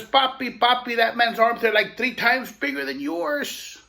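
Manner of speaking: put-on a boy amazed by a giant; awed little boy. Child voiced in story.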